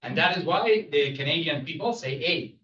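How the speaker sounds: French Canadian English, TH turned to D; French Canadian accent. Shown as a demonstration. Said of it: "everything become a D".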